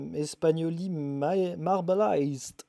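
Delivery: a light put-on English accent on the name; mock English accent. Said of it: "c'est mon accent anglais". (avec un petit accent anglais pour rire)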